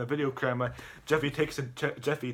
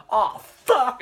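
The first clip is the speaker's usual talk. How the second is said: loud, high mock outburst; exclaimed curse; 11 semitones higher, 10 dB louder than usual. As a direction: blurt it out loud, acting his dismay. Acted outburst of swearing in retelling.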